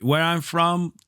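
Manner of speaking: lightly imitated Amazonian accent; a hint of Amazonian accent, measured. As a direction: mimic a coach's Amazonian accent, laying out two choices. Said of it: "his charming Amazonian accent".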